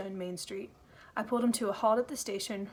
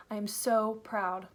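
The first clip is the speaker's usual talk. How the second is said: proud, tender; slower than usual. Acted. Susan to Ada, slowly and tenderly proud. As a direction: let the pride sink in gently. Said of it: "She smiled at me and said".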